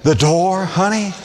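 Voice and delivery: husband's plea. Retold or imitated. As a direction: sweet-talk her through the door. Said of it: "and he's saying".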